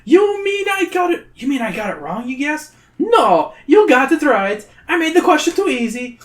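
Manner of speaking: high troll sputter; flustered troll. Acted. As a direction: fumble the words as the troll.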